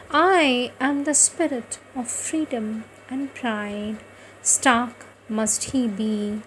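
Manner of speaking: lifted, spaced-out poem reading with a pause at each line; poem recitation. Acted. Reciting Aurobindo's poem to devotees, a lifted poetic recitation. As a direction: recite it like a hymn to the hills.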